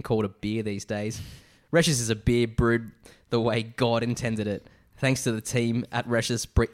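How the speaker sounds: hammed-up broad Australian accent; proper Aussie accent. Podcaster reading out a beer fan's review, proper Aussie accent. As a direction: read it like a true-blue Aussie. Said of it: "a proper Aussie accent".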